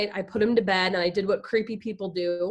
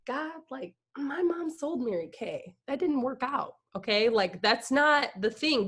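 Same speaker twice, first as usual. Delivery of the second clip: doubtful reply to God; 4 semitones higher than usual. Retold or imitated. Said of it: "And I was like".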